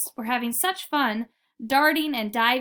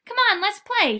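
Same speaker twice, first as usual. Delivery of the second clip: higher, louder call to the others; 9 semitones higher, 7 dB louder than usual. Acted. Jagged-finned fish calling his friends, louder. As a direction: call the gang back to the game. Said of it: "he called to the others".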